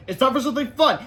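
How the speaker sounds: loud, high teacher voice; teacher's announcement. A narrator's reading. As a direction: dangle a treat before the class.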